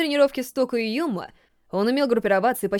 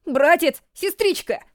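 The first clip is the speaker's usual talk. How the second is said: put-on boy's shout; 6 semitones higher, slower than usual. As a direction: shout for them across the library. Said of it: "нарушил чей-то крик".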